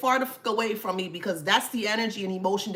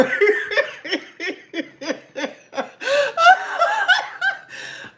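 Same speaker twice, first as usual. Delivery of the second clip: high wheezing laugh; 6 dB louder than usual. Real, not acted.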